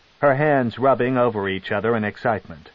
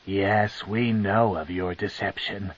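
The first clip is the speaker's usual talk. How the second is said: sneering; 4 dB quieter than usual. Acted. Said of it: "Malice sneered".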